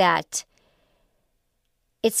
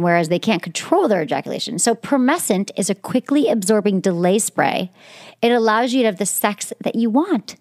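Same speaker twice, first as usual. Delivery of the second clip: louder, upbeat sponsor read; 4 dB louder than usual. Acted. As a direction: sell it like a host-read ad.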